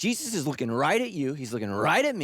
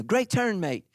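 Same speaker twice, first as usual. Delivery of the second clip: Australian car voice; 4 semitones higher than usual. Retold or imitated. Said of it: "a female from Australia".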